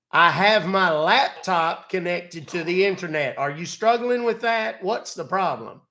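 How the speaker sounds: put-on grumpy elderly Southern gentleman, exasperated; cranky old Southern man. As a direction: play a fed-up old country man. Old man persona scolding scammer.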